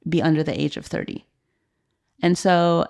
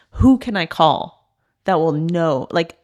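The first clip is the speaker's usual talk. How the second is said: desperate plea; 4 dB louder, slower than usual. Retold or imitated. Hopeless scrolling through phone.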